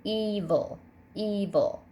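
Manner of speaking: "evil" with a long, accented E; "evil" stressed EE-vul, second syllable light; stress on first syllable. Shown as a demonstration. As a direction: lean on the opening E of "evil". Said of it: "accented syllable is definitely the first".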